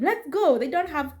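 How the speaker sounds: high, mildly cross urging; retold anger. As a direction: imitate an annoyed kid ordering everyone out. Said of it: "Shiro was mad".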